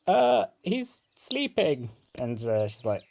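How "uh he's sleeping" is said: put-on meek kids' reply. Boys answering mother meekly.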